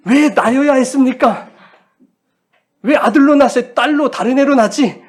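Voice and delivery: acted newborn's loud, high-pitched complaint; indignant protest. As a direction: protest your birth, pitch and volume up. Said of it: "이렇게 막 항변을 하듯이".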